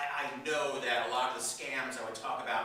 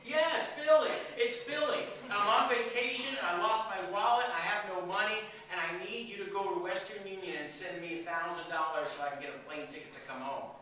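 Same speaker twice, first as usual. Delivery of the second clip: high, urgent grandson voice; tearful muffled scam call; 5 semitones higher, 3 dB louder than usual. Retold or imitated. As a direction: beg for money as the fake grandson. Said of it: "the call goes like this".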